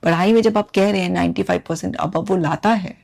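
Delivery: usual speaking voice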